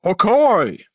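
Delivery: drawn-out character shout; swooping exclamation in character; alternate villain cry. Shown as a demonstration. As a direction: another voice-acted take, pushed out. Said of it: "Or it's like".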